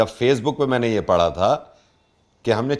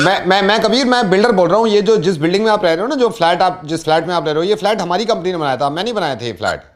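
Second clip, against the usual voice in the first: higher-pitched, insistent prank builder; pushy builder; 5 semitones higher, 3 dB louder than usual. Pretend. Builder to flat owner on a prank call, pushy. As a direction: play a builder justifying himself in a rush.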